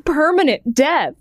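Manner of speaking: clownish, swooping mock announcement; goofy Comic Sans voice. Shown as a demonstration. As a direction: make it morbid but cute, like a clown. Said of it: "sounds like when I try to do".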